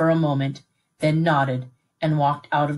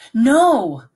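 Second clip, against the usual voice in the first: a sharp, loud, higher No; protesting shout; 7 semitones higher, 8 dB louder than usual. A narrator's reading. Boy shouts his protest to his father. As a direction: Nick bursts out against leaving him behind. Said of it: "Nick protested".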